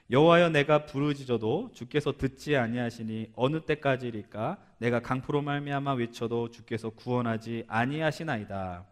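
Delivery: slow, measured Bible reading; scripture reading. Acted. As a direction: read it out solemnly and evenly. Reads scripture aloud to congregation.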